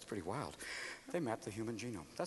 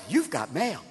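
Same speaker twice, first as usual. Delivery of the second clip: perky computer voice; 3 dB quieter than usual. Retold or imitated. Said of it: "it's got that perky voice".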